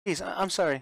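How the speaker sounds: high, loud begging between sobs; sobbing plea. Acted. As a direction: beg Mother not to be angry. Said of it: "Rosa sobbed with grief".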